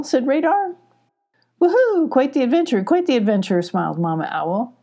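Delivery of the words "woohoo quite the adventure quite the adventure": high hoot easing into chatter; a lightly voiced merry owl; cheerful owl. A narrator's reading. Mama Owl greeting.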